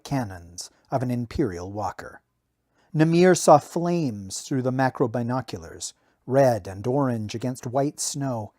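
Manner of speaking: steady audiobook reading; story narration. A narrator's reading. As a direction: read the battle scene like an audiobook. Novel narration read aloud.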